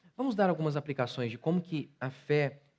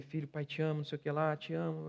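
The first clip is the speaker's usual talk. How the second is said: tender note; 6 dB quieter than usual. Retold or imitated. Letter to son.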